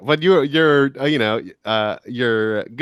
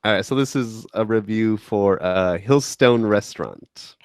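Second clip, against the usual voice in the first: put-on British accent; 4 semitones lower than usual. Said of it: "perfect word to say with a British accent".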